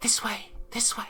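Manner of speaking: enticing, alluring, luring whisper. Narrating the game, the speaker voices a voice the players hear: alluring voice. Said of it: "you hear an alluring voice that says".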